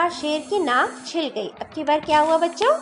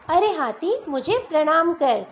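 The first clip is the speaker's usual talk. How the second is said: proud fly; 2 semitones higher than usual. Acted. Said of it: "घमंड में चूर होकर".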